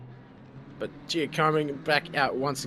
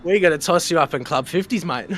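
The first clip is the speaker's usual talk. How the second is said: laughing; 4 semitones higher, 9 dB louder than usual. Real, not acted. Teasing older co-host, laughing.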